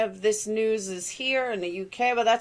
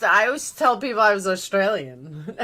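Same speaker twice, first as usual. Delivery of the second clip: chuckling through the line; laughing. Real, not acted. Streamer laughing at her own childhood mix-up. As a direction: laugh as you admit it. Laughing while telling story.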